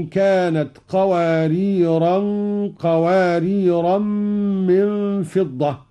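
both "قواريرا" with a long final a. Shown as a demonstration. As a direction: recite "قواريرا" nunated. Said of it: "قرأ قالون بتنوين".

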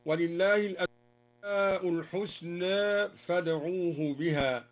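slow recitation, final vowel of "الحسنى" slightly tilted towards e; taqlil. Shown as a demonstration. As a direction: tilt the last aa of "الحسنى" partway to e. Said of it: "وقلل الحسنى من قوله تعالى". («الحسنى» بالتقليل بين الفتح والإمالة)

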